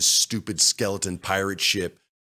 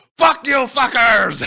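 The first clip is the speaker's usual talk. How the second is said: full pirate holler, very loud and high; 9 dB louder than usual. Retelling a game moment, the speaker turns his mic back on: full pirate voice. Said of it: "in full pirate voice".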